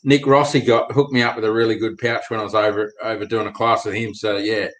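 usual speaking voice

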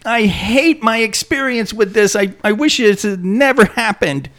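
high, panicked yelp of a burnt mouth; mouth burning from spicy food. Retold or imitated. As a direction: squeal as the chili hits. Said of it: "So you'll bite into it and like".

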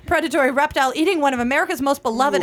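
light touch of a polished tour guide. Acted. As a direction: announce it like a theme park tram guide. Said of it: "I can hear you on that tram".

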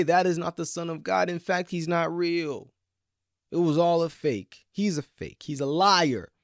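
loud dismissive scoff; a touch of a sneering skeptic; scoffing doubter. Retold or imitated. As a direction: brush him off as a fake. Preacher voices modern doubters.

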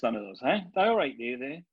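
imitating brothers in thick Yorkshire dialect; broad Yorkshire, lilting up on the questions; broad Yorkshire accent. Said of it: "they all speak like this".

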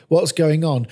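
urgent question over a commotion. Acted. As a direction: lift your voice a little to be heard. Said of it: "They raised their voices".

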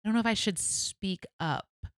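wavering, mimicked reluctant excuse; mock hesitancy. Mimicking believers who won't speak up, mock hesitant. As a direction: waver as if unsure, mocking it.

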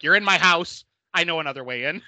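imitating a creepy landlady calling out; mock menacing call. Trish stalking the group, calling out in mock menace. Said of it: "she's like".

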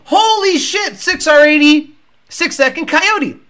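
high, impressed exclamation; energetic amazement. Acted. Host demands equal hype for sixes, energetic amazement. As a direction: show the energy you are demanding. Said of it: "I wanna see that same energy".

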